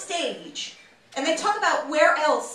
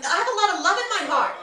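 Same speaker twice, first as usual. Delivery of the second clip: raised-pitch, quick insistence; passionate New Yorker; 4 semitones higher, faster than usual. Shown as a demonstration. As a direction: protest your love in a brisk rush. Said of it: "We're always yelling".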